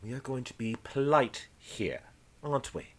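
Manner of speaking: controlled reprimand, softening at the end; stern voice. Acted. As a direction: rein in a crewman politely. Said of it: "You hear a stoner voice says".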